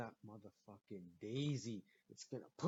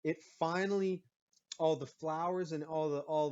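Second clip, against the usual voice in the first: heated retort; 4 semitones higher, 5 dB louder than usual. Retold or imitated. I'm like.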